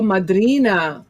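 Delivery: put-on playful Italian-accented exclamation; lightly put-on Italian accent. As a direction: say it with an Italian lilt. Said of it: "I said it with my Italian accent".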